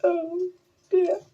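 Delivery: high, eager little llama voice; bubbling over with excitement as a young llama; high excited llama character voice. Acted. Lorenzo despairs.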